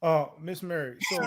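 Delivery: thin, squeaky-sounding audio; like a cartoon mouse on a bad line; tinny squeak before the fix; Mickey Mouse sound. Real, not acted. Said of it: "Put that bass in your voice".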